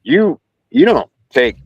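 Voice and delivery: imitated hesitant, halting question; mock tongue-tied fan, restarting midway; nervous stammer. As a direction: stumble lightly over the first words. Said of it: "I kinda stuttered".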